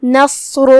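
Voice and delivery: نصر with a full-mouthed, heavy ص and ر; heavy sad and ra. Shown as a demonstration. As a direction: thicken the ص and ر in نصر. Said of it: "بھاری آواز میں ادا کریں گے".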